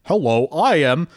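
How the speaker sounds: slow, loud clumsy American accent put on by an Italian; mock American accent. Joining the joke about Italians mocking Americans, in a mock American accent. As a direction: lay on a bad foreigner's American accent. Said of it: "they're just trying to do, like, an American accent".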